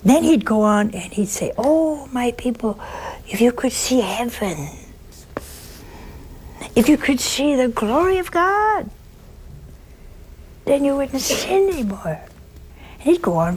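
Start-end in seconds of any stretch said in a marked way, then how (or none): 1.6-12.2 higher, pleading preacher's voice; high-pitched curé pleading. Retold or imitated. Curé begging his people to see heaven, high-pitched. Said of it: "the curé in his high-pitched voice".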